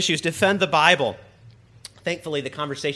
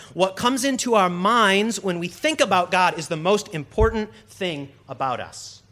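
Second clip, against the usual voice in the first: quoting Tozer; 3 semitones higher than usual. Retold or imitated. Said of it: "Tozer famously wrote".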